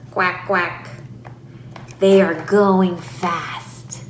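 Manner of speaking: put-on slow, separated phrases for a toddler; simplified slow play talk to a child; short simple sentences. Shown as a demonstration. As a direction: take each little sentence slowly, with gaps. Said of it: "Use more sentences, shorter in length".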